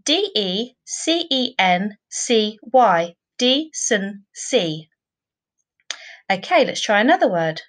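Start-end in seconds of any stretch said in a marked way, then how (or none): 3.4-4.9 decency said slowly, syllable by syllable; teacher slowly sounding out decency. Shown as a demonstration. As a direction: stretch out decency into its three syllables. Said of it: "break that down into three syllables".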